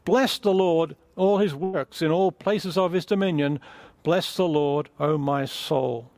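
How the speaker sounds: lifted, ringing psalm reading; reading the psalm aloud to the church; scripture reading. Acted. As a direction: proclaim each line of praise. Reads psalm aloud to congregation.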